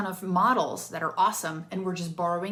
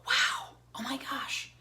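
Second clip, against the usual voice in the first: stunned disbelief; 6 semitones higher, much slower than usual. Retold or imitated. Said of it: "I want them to be like".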